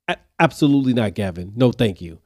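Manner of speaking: firm teacher scold. Retold or imitated.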